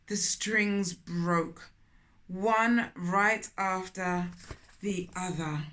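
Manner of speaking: put-on storytelling voice for children; gentle read-aloud storytelling; story narration. A narrator's reading. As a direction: read it like a picture book aloud. Narrating the climax.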